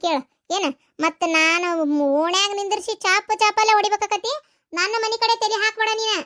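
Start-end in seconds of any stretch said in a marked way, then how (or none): 2.2-6.1 higher, heated threat; raised furious warning; angry threat. Acted. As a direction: warn her off, fuming. Threatening the in-law.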